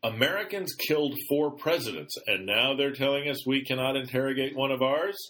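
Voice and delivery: a hint of an outraged MP; Gia Volsky quoted. Host mocking an MP's indignant retort. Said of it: "Gia Volsky ... commented, quote".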